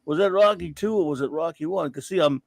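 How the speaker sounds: lightly done mumbling Rocky Balboa voice; hint of a slurred Philly boxer; bad Rocky impression. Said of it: "this annoying Rocky stupid voice, really bad Rocky impersonation".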